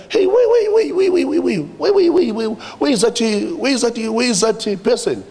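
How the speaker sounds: startled calling out. Retold or imitated. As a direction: mimic the startled men halting him.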